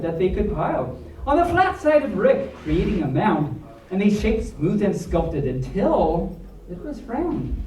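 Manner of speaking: lively storybook read with rhyme; reading to children. A narrator's reading. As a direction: read the rhyming story to the kids. Reads picture book aloud.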